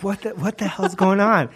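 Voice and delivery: high-pitched mock disbelief; bewildered. Telling a friend about his buddy's collapse, mock bewilderment.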